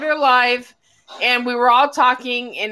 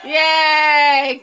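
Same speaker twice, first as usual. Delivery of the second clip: cheering; 3 semitones higher, 4 dB louder than usual. Real, not acted. Cheering a stream arrival.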